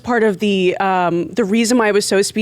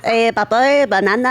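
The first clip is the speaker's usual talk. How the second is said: Minion impression. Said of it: "my Minion impression".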